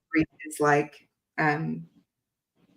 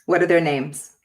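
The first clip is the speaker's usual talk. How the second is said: louder, clearer repeat of the question; host asks again louder after she missed it; repeated louder so she hears; 3 dB louder than usual. Real, not acted. Repeating a question louder to be heard. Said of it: "I didn't hear that".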